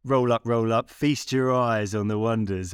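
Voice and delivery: lightly hammed-up fairground barker; half-hearted showman calling in the crowds; a hint of a carnival barker's pitch; terrible carnival barker. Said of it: "that was a terrible impression".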